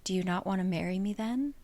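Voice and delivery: soft, fast hurt question; terrible softness. Retold or imitated. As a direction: drop the voice, almost gentle menace. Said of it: "said with terrible softness".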